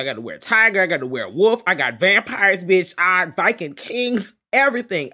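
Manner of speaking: high, loud bragging rant; squealing over her new lovers; gushing brag. Retold or imitated. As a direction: shout the list like bestie spilling tea. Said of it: "she's like".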